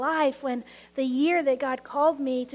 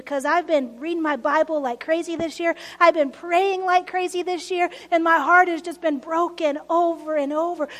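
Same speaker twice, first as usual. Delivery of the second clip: mad at God; 5 dB louder than usual. Retold or imitated. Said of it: "I got mad".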